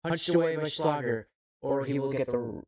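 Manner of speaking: rising play-by-play excitement; excited commentary. Real, not acted. Commentator calling a goalkeeper punch, excited. Live match commentary, ball cleared.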